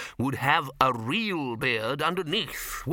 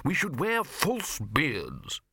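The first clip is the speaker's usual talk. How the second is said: raised, drawn-out triumphant proposal; 4 semitones higher, much slower than usual. A narrator's reading. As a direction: spell out your great idea slowly. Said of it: "said the lecturer in recent runes triumphantly".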